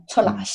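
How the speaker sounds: "出来" said slowly and clearly, Shanghainese tones; slow Shanghainese word. Shown as a demonstration. Guest slowly says "出来" for the host to repeat. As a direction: carefully spell out "出来" in Shanghainese so a host can copy it. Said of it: "can you say that slowly".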